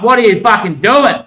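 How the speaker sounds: a retold angry outburst, half-performed; mock angry yell. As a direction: bark it like someone yelling at fools. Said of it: "barking, yelling, screaming like".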